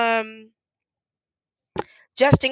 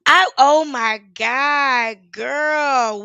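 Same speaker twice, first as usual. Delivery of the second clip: louder and higher, slow, voice full of feeling; emotional recognition; 4 semitones higher, 7 dB louder, much slower than usual. Real, not acted. Activist recognizes an old protest friend, slow and emotional. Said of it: "I'm gonna try not to cry".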